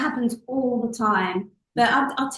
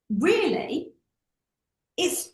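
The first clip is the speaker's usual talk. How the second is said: usual speaking voice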